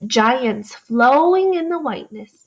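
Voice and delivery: read-aloud voice. Shown as a demonstration. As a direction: read it gently like a story. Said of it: "reread to show you what it would sound like".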